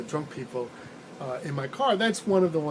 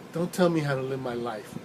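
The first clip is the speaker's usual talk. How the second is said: flat, expressionless canned line; toneless deadpan; 3 semitones lower than usual. Retold or imitated. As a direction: say it with no inflection at all, like a drunk on autopilot. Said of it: "it was toneless, it was expressionless".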